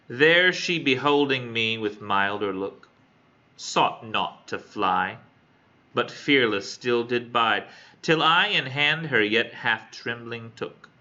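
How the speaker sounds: slow, measured verse reading; poem reading. Acted. Student reading a sonnet to classmates, measured recital. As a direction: read each line out slowly with stretched stresses.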